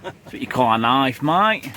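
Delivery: badly faked Australian movie line; bad Australian accent. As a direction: put on a clumsy Aussie twang. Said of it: "my bad Australian accent".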